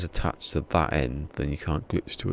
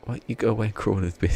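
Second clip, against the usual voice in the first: angry rant; 4 semitones higher, much faster than usual. Real, not acted. Cursing the game.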